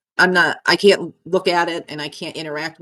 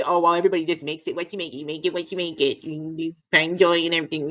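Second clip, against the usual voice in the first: mocking quote; faster than usual. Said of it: "you could say".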